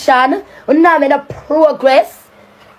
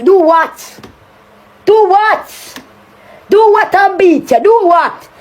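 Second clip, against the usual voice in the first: scoffing repeat; 3 semitones higher than usual. Acted. Scoffing at rival's challenge.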